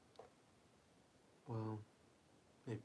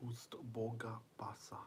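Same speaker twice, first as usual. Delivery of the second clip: whispered name; 3 semitones higher than usual. Pretend. Whispering the name once more.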